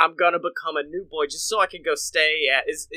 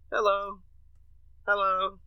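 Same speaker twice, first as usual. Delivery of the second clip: put-on very old man; 4 semitones higher than usual. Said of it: "very, very old man there as a greeter".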